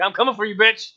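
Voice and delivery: loud growled threat as the animatronic; menacing Foxy voice. Retold or imitated. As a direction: snarl it like a monster hunting you.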